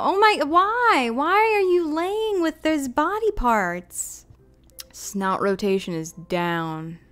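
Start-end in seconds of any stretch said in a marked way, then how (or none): 0.0-4.2 high, slow, appalled; horrified disbelief. Real, not acted. Player appalled at the dog lying among body parts. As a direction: stretch out the dismay.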